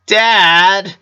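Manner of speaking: a son laughing in mock protest; laughing complaint. A narrator's reading. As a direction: whine at dad while laughing. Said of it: "complained as he laughed".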